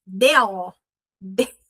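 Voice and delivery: "They'll" with the L dropped, sounding like "de"; ugly they'll. Shown as a demonstration. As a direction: mumble "They'll" flat and ugly. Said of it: "esse é bem feio".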